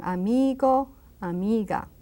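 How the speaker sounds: amigo, amiga with a long held "ee"; drawn-out I. Shown as a demonstration. Spanish teacher showing the long I, drawn out. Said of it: "I say it quite long".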